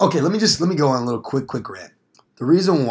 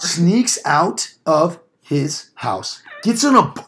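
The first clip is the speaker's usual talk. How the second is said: high, very slow indignant rant; 5 semitones higher, slower than usual. Real, not acted. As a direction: draw it out in disbelief. Ranting about Polar Express kid.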